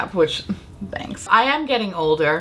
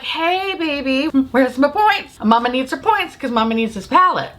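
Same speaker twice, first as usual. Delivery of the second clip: sweet-talking caller; 4 semitones higher than usual. Retold or imitated. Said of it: "I call Ulta and I'm like".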